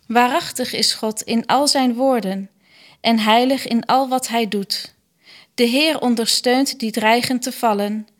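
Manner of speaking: measured, evenly phrased scripture reading; liturgical reading. Acted. Lector reads scripture and psalm to the congregation, formal liturgical reading. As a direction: read it out formally, pausing after each verse.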